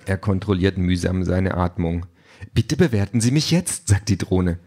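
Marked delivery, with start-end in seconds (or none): 2.5-3.9 high, perky automated request; cheerful drone. A narrator's reading. Delivery drone asks Peter for a rating, perky. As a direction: ask sweetly in a high service voice.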